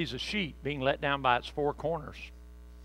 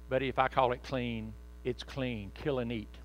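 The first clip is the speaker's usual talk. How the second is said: angel gently; 3 semitones lower, 5 dB quieter than usual. Acted. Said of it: "the angel flew down to Peter and said".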